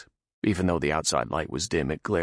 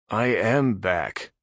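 fired back; 4 semitones higher, 4 dB louder, much slower than usual. Acted. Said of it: "Nath fired back".

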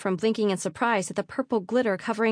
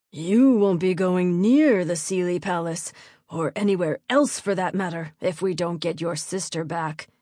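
slow, heavy-stressed father's voice; stern, angry baron; 2 semitones lower, 3 dB louder than usual. A narrator's reading. Baron forbidding his daughter the palace, stern anger. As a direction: lay down the law as an angry baron.

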